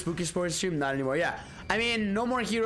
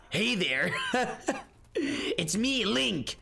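Trunks-like Link. Retold or imitated. Streamer mocks future Link sounding like Trunks, whispered. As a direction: Link hushed and breathy like Trunks, fading to a whisper. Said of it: "I made him sound like Trunks".

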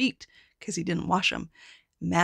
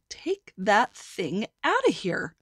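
grumpy grown-ups; slower than usual. Acted. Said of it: "The grown-ups would say".

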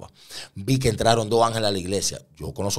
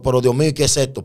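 loud, high-pitched bewildered plea; re-enacted astonished prayer; overwhelmed cry to God; 5 semitones higher, 5 dB louder than usual.

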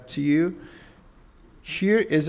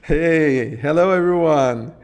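loud excited hello; raised, upbeat demo greeting; 2 semitones higher, 5 dB louder than usual. Shown as a demonstration. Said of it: "Excited voice".

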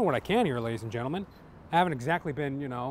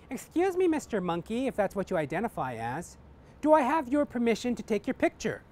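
put-on progressive young woman; 4 semitones higher than usual.

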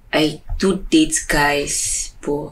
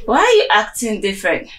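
higher, tipsy whining with sighs; 5 semitones higher than usual. Acted. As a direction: complain like someone a bit drunk. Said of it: "But I'm very tipsy".

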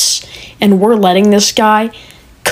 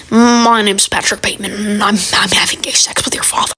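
Patrick Bateman voice. Acted. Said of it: "I sound like Patrick Bateman".

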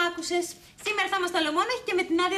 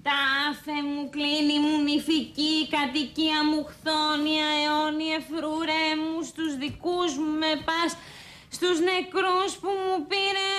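plain; much slower than usual. Shown as a demonstration. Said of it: "παίζεις το μονόλογο της Αντιγόνης".

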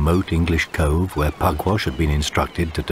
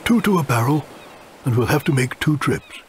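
hushed pirate captain; 8 semitones higher than usual. Acted. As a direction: lead the crew on tiptoe. Pugwash warns crew.

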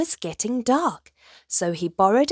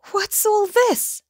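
higher-pitched, amused questioning; lightly amused, doubting rabbit; mild chuckling tone; amused chuckle; 12 semitones higher, 4 dB louder than usual. A narrator's reading. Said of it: "chuckled Rabbit".

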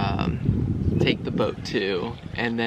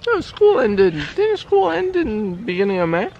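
higher, louder insisting; insistent; 9 semitones higher, 7 dB louder than usual. Real, not acted. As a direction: push back firmly. Insistent disagreement.

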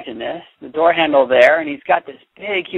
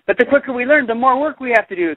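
1 complaining; 7 semitones higher, faster than usual. A narrator's reading. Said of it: "complained Todd".

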